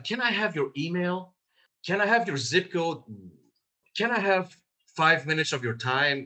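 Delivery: tentative caller seeking permission; asking permission. Shown as a demonstration. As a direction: ask meekly for a small favour.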